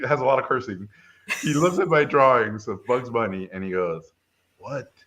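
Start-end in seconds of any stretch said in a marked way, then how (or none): 4.6-4.9 very quiet, drawn-out mock verdict; hushed disgust. Tough reviewer eyeing a student's Bugs Bunny drawings, hushed disgust. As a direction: imitate a stern critic, slow and hushed.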